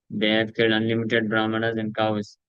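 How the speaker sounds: measured, very slow reading of the translation; solemn scripture translation. Acted. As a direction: read each word deliberately to the listeners. Reads translation slowly.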